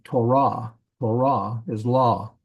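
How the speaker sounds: "Torah" as to-RAH, stress on the end; final-syllable stress. Shown as a demonstration. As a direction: lean on the last syllable of "Torah". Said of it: "The emphasis is on the last syllable".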